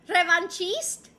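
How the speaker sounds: "Revanchiste" slowly with a ch sound, rising; questioned pronunciation. Shown as a demonstration. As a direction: try "Revanchiste" as re-van-CHEEST, as a question. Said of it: "She's mispronounced my username".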